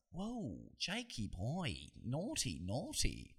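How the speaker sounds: soft, swooping sing-song tut-tut; mock scolding. Reacting to Jake Paul's insult, playful sing-song scolding. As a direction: tease him like a naughty little boy.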